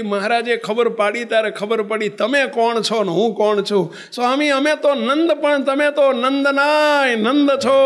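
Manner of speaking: put-on old monk weeping, pleading to bow at the saint's feet; tearful plea. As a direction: beg forgiveness through tears. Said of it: "રોતા જાય ને દંડવત કરતા જાય".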